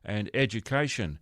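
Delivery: measured, fluent presenter read; formal bio read on air; scripted radio introduction. Real, not acted. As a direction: read out a guest's honours like a radio host. Reads a scripted guest introduction.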